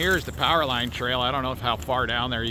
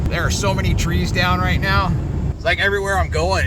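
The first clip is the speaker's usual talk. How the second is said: talking louder over howling wind; in strong wind; 5 dB louder than usual. Real, not acted. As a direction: raise your voice over the gusts. Outdoors filming treetops in heavy wind.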